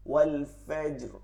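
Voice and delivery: ওয়াল ফাজর slowly, with the final র held; hold the র. Shown as a demonstration. Teacher holding the র in ওয়াল ফাজর, slow demo. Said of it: "একটু ধরবো".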